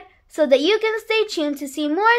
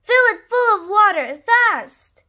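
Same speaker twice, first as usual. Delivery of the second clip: higher, louder hurry-up order; urgent command; 4 semitones higher, 3 dB louder than usual. Acted. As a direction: urge them to be quick.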